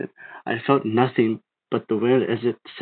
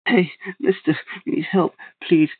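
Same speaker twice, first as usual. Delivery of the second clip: a calling-out yell, a little higher; 7 semitones higher than usual. A narrator's reading. Boy calling to distant figure for help, yelling. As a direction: call across the road to a stranger. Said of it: "I waved at him and yelled".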